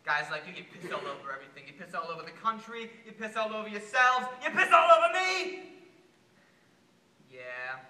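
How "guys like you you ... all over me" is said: building rage. Acted. Voter blaming guys like the president, rage building to a shout. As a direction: let each accusation climb until it bursts.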